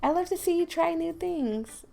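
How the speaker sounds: encouraging game character. Acted.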